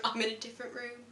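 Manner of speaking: soft, faint imitation of a spaced-out friend; dazed answer. Friend quoting her dazed mate's odd answer, dazed. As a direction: answer softly, as if miles away.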